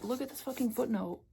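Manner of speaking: outraged bafflement at the footnote; flabbergasted. Real, not acted. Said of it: "I'm so fucking flabbergasted".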